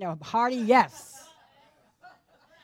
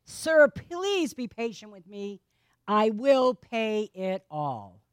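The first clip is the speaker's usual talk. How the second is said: begging; 4 semitones lower, slower than usual. Acted. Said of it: "begged him".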